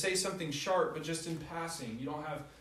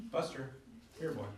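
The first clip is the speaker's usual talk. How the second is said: forced sweet coaxing; 7 dB quieter than usual. Retold or imitated. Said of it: "I'm trying to hold it on".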